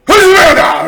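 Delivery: high-pitched, very loud imitated bellow; booming yell. Dad behind his crying daughter, intimidating booming yell. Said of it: "yelled out something booming".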